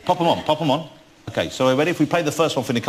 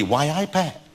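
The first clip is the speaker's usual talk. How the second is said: Geordie; 2 semitones higher, slower than usual. Shown as a demonstration. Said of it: "It was Geordie".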